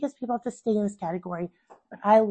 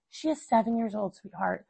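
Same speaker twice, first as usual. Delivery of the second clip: whispered reminder; 6 dB quieter than usual. Retold or imitated. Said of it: "constantly having to whisper that in my ear".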